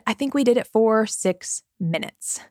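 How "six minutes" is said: deadpan punchline. Real, not acted. Mom admitting to listeners the feeding lasted minutes, deadpan. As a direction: drop it quiet and slow, deadpan. Comic punchline on failed goal.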